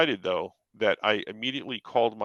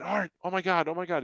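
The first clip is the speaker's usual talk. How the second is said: retold excitement; 9 semitones higher than usual. Calling friend after meeting Lucas.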